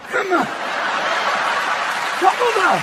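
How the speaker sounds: drawn-out, breathy, eerie coaxing; creepy cult invitation. Acted. Inviting the crowd to go brown, eerie. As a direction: lure them in like a cult leader. Opening bit luring audience, creepy.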